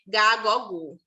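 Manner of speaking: gá, gó, gu said with a hard g sound; teacher sounding out hard G syllables. Shown as a demonstration. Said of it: "quando eu utilizo G".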